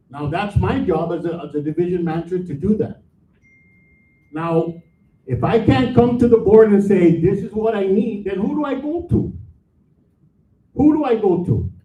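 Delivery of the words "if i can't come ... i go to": frustrated, raised tone. Real, not acted. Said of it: "I apologize for my tone".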